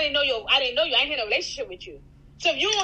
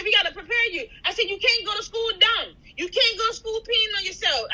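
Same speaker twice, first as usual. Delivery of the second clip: put-on higher, firm talk to a child; firm parent; 5 semitones higher than usual. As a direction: set a child straight. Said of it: "This is how I'm talking to Mitra".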